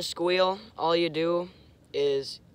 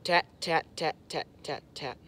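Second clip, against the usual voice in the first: quick tat tat call, fading; clipped call demo fading away; mock call syllables. Shown as a demonstration. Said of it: "you're just saying".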